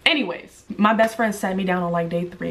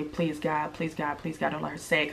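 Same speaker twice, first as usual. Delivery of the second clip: much softer, hushed inner prayer; silent pleading; 4 semitones lower, 10 dB quieter than usual. Retold or imitated. Dreading what her friend will say, a hushed pleading prayer. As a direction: beg under your breath.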